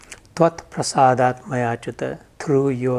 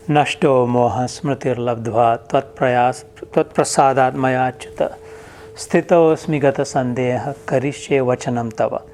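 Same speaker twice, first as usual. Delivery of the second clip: verse recitation. Acted. Teacher recites the Sanskrit verse.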